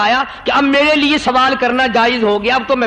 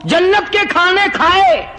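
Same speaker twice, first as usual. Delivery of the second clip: a hint of a reproachful dog, higher; indignant dog's reply; 3 semitones higher than usual. Dog rebukes holy man for begging, lightly voiced higher retort. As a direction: talk back like an aggrieved dog.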